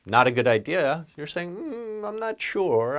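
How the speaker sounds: mm, unsure and doubtful; hesitant doubt. Shown as a demonstration. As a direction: hedge it, trailing and unsure. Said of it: "instead of being so direct and clear".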